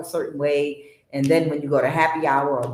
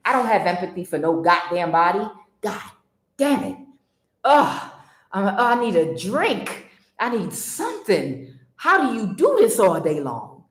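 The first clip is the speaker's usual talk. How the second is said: a tired demon griping; possessed; 3 semitones higher than usual. Retold or imitated. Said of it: "like in a demonic voice".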